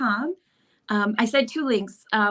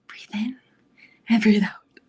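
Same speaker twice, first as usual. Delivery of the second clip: whispered calming breaths; whispering. Real, not acted. Calming herself while waiting on stream.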